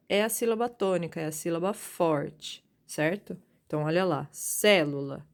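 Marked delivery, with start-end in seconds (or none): 4.3-5.3 célula with CÉ punched, the rest falling away; antepenultimate stress. Shown as a demonstration. Teacher asking which syllable is strong, stressing the antepenultimate. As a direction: hit the first syllable of célula hard. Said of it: "Quem é a forte? A antepenúltima".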